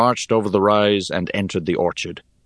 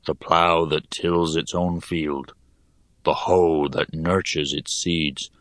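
put-on gloomy old digger. Hone reminisces gloomily.

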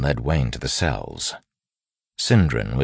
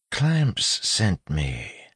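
put-on slow, higher-pitched street-tough accent; 7 semitones higher, much slower than usual. A narrator's reading. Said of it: "said softly in a street-tough accent".

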